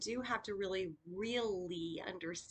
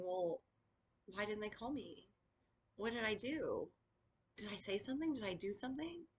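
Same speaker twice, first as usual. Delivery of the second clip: soft, worried questioning; anxious self-doubt; 5 dB quieter than usual. Retold or imitated. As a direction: fret quietly about what went wrong. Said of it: "you start going".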